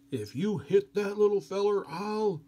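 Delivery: a big man protecting the little one; big Russian guy's threat. Retold or imitated. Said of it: "the big Russian guy says".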